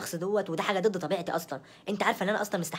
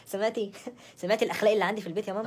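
amused outrage, quick and breaking into laughs; scandalised but giggling; laughing indignation; 3 semitones higher than usual. Acted. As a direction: laugh through a complaint to mum. Laughing while complaining to her mother.

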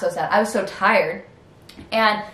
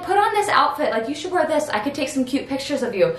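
mom's eager voice; 4 semitones higher than usual. Retold or imitated. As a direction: play the excited mom picking an outfit, pitched way up. Mom's outfit suggestions quoted.

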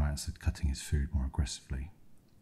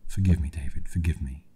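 muffled, face pressed into shoulder; 6 dB louder than usual. Acted. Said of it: "with a muffled voice".

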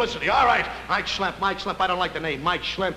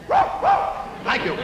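very high squeak on thank you; squeaky thanks. Acted. Recruit meeting the star, squeaky thanks. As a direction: voice cracking starstruck.

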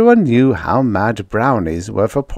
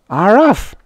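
high, loud foreign yelp; little creature's pleased exclamation; alien native; 12 semitones higher, 6 dB louder than usual. A narrator's reading. Native responds to his first soup, pleased.

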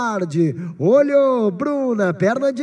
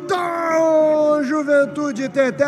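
held-out goal shout, rising high; long goal yell; 7 semitones higher, much slower than usual. Real, not acted. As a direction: stretch the goal cry out full voice. Goal scored, radio narrator.

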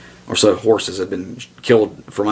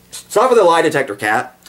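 scolding the cat; 8 semitones higher than usual. Real, not acted. Scolding his cat mid-talk.

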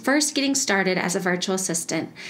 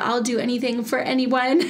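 higher-pitched mock pitch, ending in a laugh; self-mocking sales shtick; 4 semitones higher than usual. Host mocking her old marketing line, lightly hammed-up shtick. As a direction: parody your own eager old pitch. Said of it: "uh, shtick".

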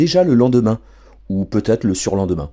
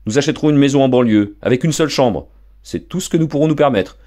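stern father; 6 semitones higher, 3 dB louder than usual. Acted. Father continues.

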